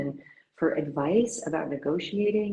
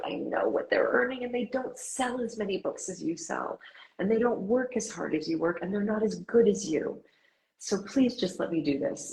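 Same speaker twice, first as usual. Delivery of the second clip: put-on higher British accent, building her case; British agent insisting on her worth; imitated British accent, pitched up; 6 semitones higher than usual. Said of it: "in her wonderful British accent".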